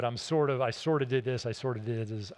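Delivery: mumbled, hedging confession that fades away; mock someone owning it only halfway; half-hearted admission. Shown as a demonstration. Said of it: "Don't halfway do it".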